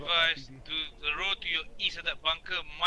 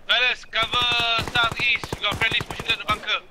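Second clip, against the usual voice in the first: shouted order; 3 semitones higher, 5 dB louder than usual. Real, not acted. Calling cover to his team.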